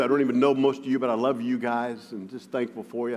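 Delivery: normal talking voice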